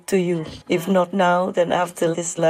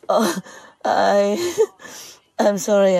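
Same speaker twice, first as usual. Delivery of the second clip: a shaky half laugh half sob, then an apology; trying to steady a breaking voice; emotional. Real, not acted. Speaker apologizing to listeners, caught by emotion. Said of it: "I'm just too emotional".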